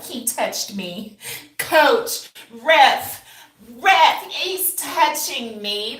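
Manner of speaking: high, loud, drawn-out whine to the ref; mock a crybaby player begging for a foul; whiny player. Mocking whiny players who complain to the ref, high and loud. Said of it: "dudes wanna play basketball. Be like".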